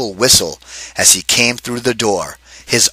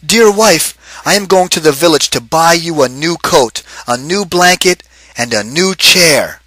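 higher, eager husband's voice; excited husband; 5 semitones higher than usual. Acted. Husband telling his wife he's buying her gifts, eager and higher. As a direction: announce the gifts with pride.

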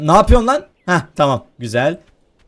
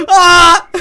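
loud, high "ah"; sudden high yelp; high cry; 7 semitones higher, 5 dB louder than usual. Real, not acted. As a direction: cry out in the tussle. Fighting gardener over the rake.

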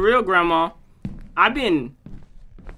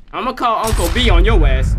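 loud threat; 7 dB louder than usual. Real, not acted. Threatening Granny.

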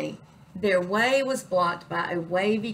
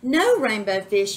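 louder urgent plea to a friend; crying out; 6 dB louder than usual. Acted. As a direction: call him back, a bit louder. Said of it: "he cried".

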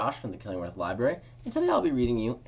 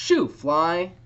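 high, loud shoo; shooing shout; 9 semitones higher, 10 dB louder than usual. Acted. Boy shooing the fly away, loud high shout. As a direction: chase the fly off loudly. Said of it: "A boy shouted".

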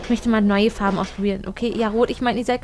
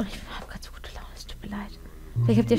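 whispered apology; sheepish whisper to viewers; 3 semitones lower, 6 dB quieter than usual. Real, not acted. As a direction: breathe it out in a whisper.

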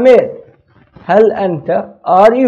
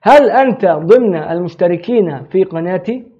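fast recap; much faster than usual. Shown as a demonstration. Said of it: "teacher repeats full sentence".

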